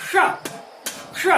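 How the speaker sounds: क्ष sounded as "ksha", written श; श on its own, with a pause between repeats; isolated sound demo. Shown as a demonstration. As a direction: say श as one crisp retroflex k-sh syllable. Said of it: "तो इसका उच्चारण क्या निकला".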